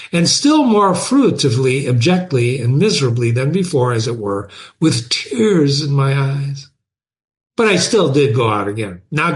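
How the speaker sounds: animated first-person reading with lively pitch swings; storyteller voicing an aggrieved narrator; dramatic story narration. A narrator's reading. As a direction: read it aloud expressively, pausing between phrases. Reads the story aloud in first person.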